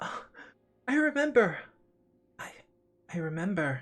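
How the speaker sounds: put-on ecstatic, overjoyed girl voice. Voicing a girl whose room turns into a grove: ecstatic girl. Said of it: "the girl is absolutely ecstatic".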